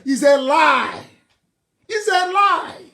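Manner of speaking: forceful rebuttal; emphatic denunciation. Real, not acted. Denouncing the slogan.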